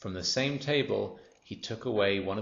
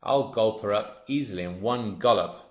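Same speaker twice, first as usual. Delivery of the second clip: louder, relishing crocodile voice; greedy crocodile; 5 dB louder than usual. Acted. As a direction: crocodile gloating over the girl. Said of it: "he thought".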